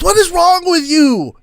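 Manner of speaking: shrill high disbelief at the muddy party; high-pitched flustered scolding; high exasperated old traveler. Acted. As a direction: throw up your hands, high and loud.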